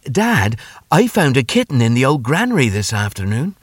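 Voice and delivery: a hint of a son making his case; boy telling his dad. Boy voiced in story.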